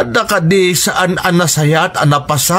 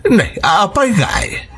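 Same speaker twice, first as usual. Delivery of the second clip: tearful protest; 2 semitones higher than usual. Acted. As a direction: voice breaking into tears on the question. Grandmother hears Lisel must stay. (agsangsangit a mangidawdawat)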